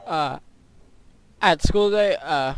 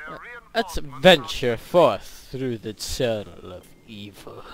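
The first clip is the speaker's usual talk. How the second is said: mock ominous; 4 semitones lower, slower than usual. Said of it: "just kidding".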